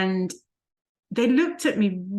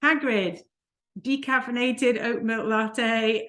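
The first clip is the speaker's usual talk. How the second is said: mild mock call-out, pitched higher; half-hearted imitation of an order shout; retold call-out; 5 semitones higher, slower than usual. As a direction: imitate someone calling out an order, slowly. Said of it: "they shouted out".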